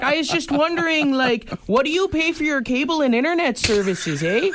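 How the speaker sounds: put-on high laughing Toronto slang accent. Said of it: "And she's like".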